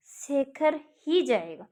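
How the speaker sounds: ही slowed and held in "Shekhar ही जाएगा"; stress on ही. Shown as a demonstration. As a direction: lean on ही, slowly. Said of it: "इस पर बल दिया गया है".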